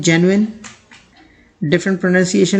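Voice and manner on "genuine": genuine read from its spelling; common reading. Shown as a demonstration. Teacher quotes how people read the word, spelling pronunciation. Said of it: "इसे लोग पढ़ते हैं".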